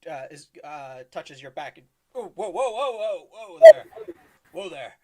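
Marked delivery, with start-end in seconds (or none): 2.1-4.9 startled elf voice. Acted. Elf stranger startled in character.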